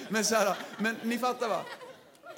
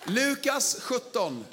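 announcing the text slowly; 4 semitones higher, 4 dB louder, much slower than usual. Real, not acted. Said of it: "announcing scripture".

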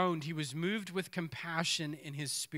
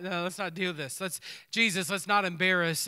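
mourners pleading; 6 dB louder than usual. Retold or imitated. Voicing mourners pleading with Jesus.

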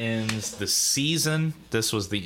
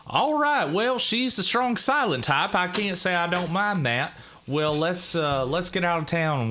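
character voice; 8 semitones higher than usual. Acted. Game master voices a character.

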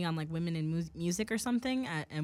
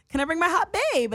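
dad's line again, pitched up and louder; high mock dad voice; 10 semitones higher, 6 dB louder than usual. Mocking her dad asking to bring his new girlfriend, high and loud. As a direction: ham up the dad's cheesy ask. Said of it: "And he was like".

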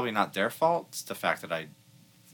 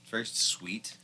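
whispered; 7 dB quieter, slower than usual. Real, not acted. Whispered tasting note.

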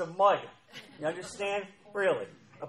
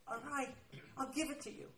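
soft, higher-pitched imitation of God relenting; reluctant giving in; 6 semitones higher, 12 dB quieter than usual. God gives in to desperate pleading, soft relenting. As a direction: give in quietly, as an imitated God.

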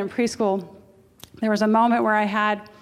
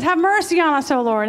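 higher, louder plea for mercy; blind man crying out; 5 semitones higher, 5 dB louder than usual. Acted. Blind man begging Jesus, loud and high. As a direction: cry out to the Lord. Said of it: "the blind man says".

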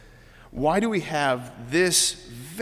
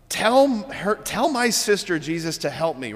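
higher, louder whiny demand; whiny Martha; 4 semitones higher, 4 dB louder than usual. Retold or imitated. Preacher voicing Martha nagging Jesus to make her sister help. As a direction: playfully whine like a put-upon sister. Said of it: "Where she's like".

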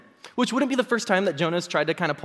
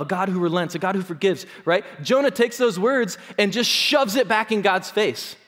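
ordinary talk

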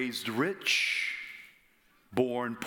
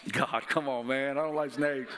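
mock Moses complaint. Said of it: "Moses didn't say that".

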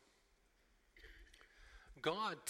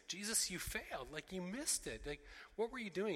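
higher-pitched, exasperated reproach; accusing; 5 semitones higher than usual. Acted. Onlookers blaming Jesus for the death, accusing. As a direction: scold him in pitched-up disbelief.

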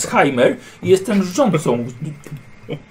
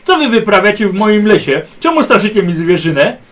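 loud, higher furious shout at the trespassers; angry nobleman; 5 semitones higher, 7 dB louder than usual. Acted. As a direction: bellow at them for scaring your game. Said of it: "słowa z akcentem pasującym do mieszkańca Imperium". (szlachcic krzyczy na drużynę z gniewem)

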